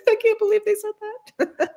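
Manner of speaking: high squeaky teary voice; tearful disbelief. Retold or imitated. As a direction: squeak it like happy tears over a review. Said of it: "I'm just weeping".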